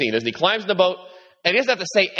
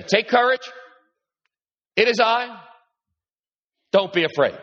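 Jesus reassuring; 7 semitones higher than usual. Acted. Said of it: "Jesus speaks to them and says".

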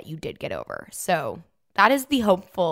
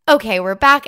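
normal talking voice

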